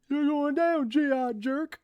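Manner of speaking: high cocky fight taunt; brash taunt. Acted. Thug taunting the sergeant mid-fight, high and cocky. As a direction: taunt him as you swing.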